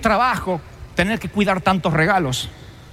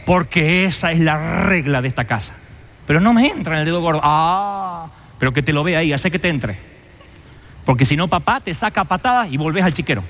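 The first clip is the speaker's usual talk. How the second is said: put-on bossy older brother; 4 semitones lower than usual. Older brother lays down rules.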